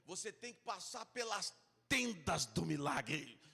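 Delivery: imitação de televangelista, alta e arrastada; pregador de TV. Retold or imitated. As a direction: anuncie como um pastor de TV, esticando as palavras. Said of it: "ele falou". (pregador de televisão imitado, em tom grandioso)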